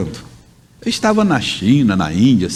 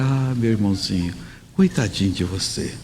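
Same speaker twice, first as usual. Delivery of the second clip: mock-pitying religious voice, softer than usual; put-on pious voice; 3 semitones lower, 6 dB quieter than usual. Preacher mimicking religious people who change their voice, mock-pious. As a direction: imitate a sanctimonious believer pitying someone, hushed. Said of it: "Alguns chegam até a mudar a voz".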